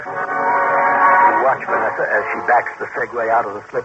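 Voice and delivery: measured second-person storyteller voice; story narration. A narrator's reading. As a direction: narrate the scene, steady and immersive.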